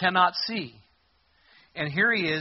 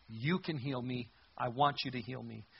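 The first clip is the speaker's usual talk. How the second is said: quiet plea; 3 semitones lower, 6 dB quieter than usual. Retold or imitated. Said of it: "to simply say".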